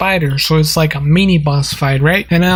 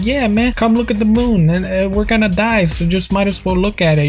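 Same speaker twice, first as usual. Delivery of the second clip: higher, lightly voiced easygoing old man; a hint of a relaxed old stargazer, higher; laid-back old man; 4 semitones higher than usual.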